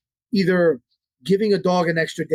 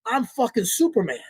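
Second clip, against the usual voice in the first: lightly voiced cocky dog, pitched higher; a dog bragging to itself, a touch higher and proud; dog's inner voice; 5 semitones higher than usual. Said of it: "So in their mind".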